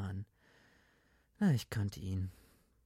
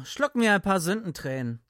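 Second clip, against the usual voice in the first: mock solemn; 8 semitones higher, 7 dB louder than usual. Red mock agrees.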